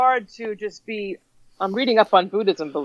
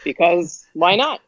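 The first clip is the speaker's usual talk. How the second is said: killer's casual reply; slower than usual. Retold or imitated. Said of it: "That's what they'd say".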